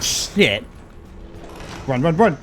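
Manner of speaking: panicked shout; yelling to flee; being chased. Real, not acted.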